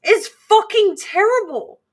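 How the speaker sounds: squeezed passenger's loud mock whine; mock complaint. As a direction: blurt out the misery. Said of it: "And I'm like".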